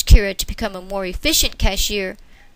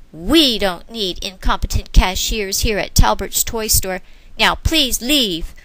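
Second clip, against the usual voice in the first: cruel smile. Acted. Manager dismissing cashier with cruel smile. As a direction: savor the cruelty. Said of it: "with a cruel smile".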